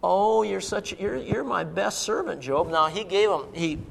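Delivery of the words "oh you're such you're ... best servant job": softly gushing mock approval; quiet, coddling praise. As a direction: imitate a doting master, voice dropped. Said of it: "It wasn't".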